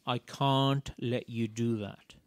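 put-on steady, kind firmness to a child; gentle. Shown as a demonstration. Parent to child, gentle and calm. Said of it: "place a gentle hand over theirs and say".

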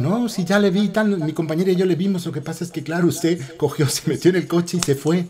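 a mild hint of a giggling cashier; amused cashier. A lightly imitated cashier explaining on the phone. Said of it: "la chica descojonada".

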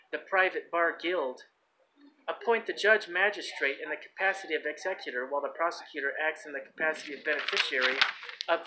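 even read-out of a legal text; reading aloud. Real, not acted. Man reading court presumptions to listeners, read-aloud delivery. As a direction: read the document out steadily, clause by clause.

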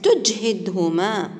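تجهدهما stretched very slowly for pupils to copy; slow model reading. Shown as a demonstration. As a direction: spell out تجهدهما slowly for the class. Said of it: "سوف نقوم بقراءتها مرة أخرى". (نطق بطيء جدا لتجهدهما)

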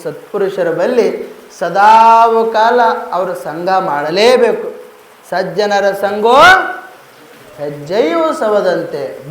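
low, measured recitation of a maxim; solemn preaching. Acted. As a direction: intone the saying slowly for the congregation.

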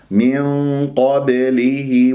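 من قبله slow, ba struck and released; minor qalqala. Shown as a demonstration. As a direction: bounce the ba lightly in من قبله. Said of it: "قلقلة صغرى، أضرب المخرج وأهرب".

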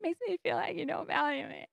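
crying softly while telling a friend; tearful. Retold or imitated. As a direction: retell it as the tears start. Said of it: "I'm starting to cry".

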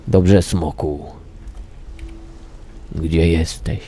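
ordinary talk

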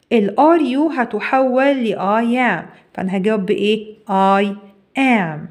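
normal talking voice

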